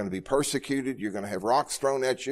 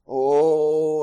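put-on a higher, louder childlike "Oh"; imitating daughter; 5 semitones higher, 7 dB louder than usual. Pastor imitates his disabled daughter singing in bed, a higher, louder childlike "Oh". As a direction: lightly mimic the little girl starting to sing. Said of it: "she spoke phonetically".

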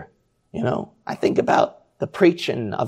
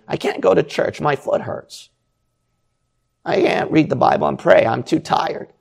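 mock whiny excuses. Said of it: "is not gonna say".

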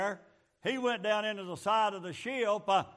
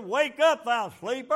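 hollered wake-up call; 5 dB louder than usual. Retold or imitated. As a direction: shout him awake from the deck. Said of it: "he hollered at Jonah".

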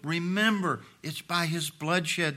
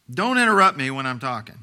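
mock parental scolding; 6 dB louder than usual. Parent's repeated command, voiced.

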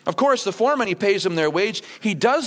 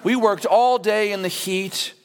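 mock martyr whine. Preacher mocks grumbling workers with a martyr whine. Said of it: "go like this and go".

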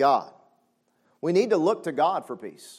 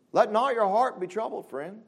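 usual speaking voice

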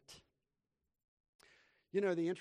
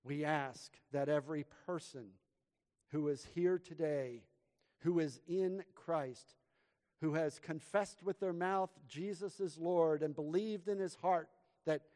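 slow, fervent pastoral prayer with louder calls to the Lord; 6 dB louder than usual. Real, not acted. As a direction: pray it earnestly over the room. Leads a prayer.

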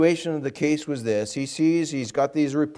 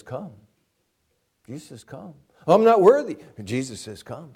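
gentle invitation; 3 dB louder than usual. Acted.

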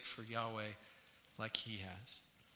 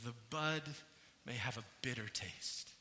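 soft, lower reading of a hymn verse; hymn recited; 5 semitones lower, 8 dB quieter than usual. Acted. Preacher reads a hymn stanza to the congregation, soft recitation. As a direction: recite the stanza gently and softly.

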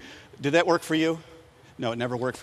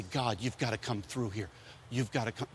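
desperate plea; 5 semitones lower, 12 dB quieter than usual. Acted. Desperate prayer voiced.

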